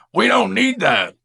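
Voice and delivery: loud, high mock rebuke; dismissive scolding. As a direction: shoot the idea down loudly. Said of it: "and you say".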